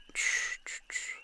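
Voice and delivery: soft hushing whisper to calm him; shushing whisper. Acted. Villain hushing the frightened hero, whispered. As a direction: whisper shh gently like calming a child.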